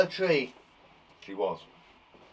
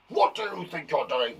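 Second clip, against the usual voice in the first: quicker, lightly voiced cross teacher; a hint of a stern teacher telling off; angry teacher. Teacher catching pupils misbehaving, mild mock anger. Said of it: "That was, uh, an angry teacher".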